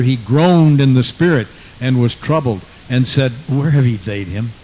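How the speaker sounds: measured, projected Bible reading; scripture reading. Acted. Preacher reading the story of Lazarus to the church, projected scripture reading. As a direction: read the verses out firmly to a congregation.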